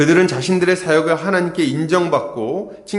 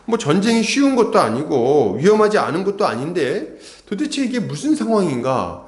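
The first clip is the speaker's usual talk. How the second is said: ordinary talk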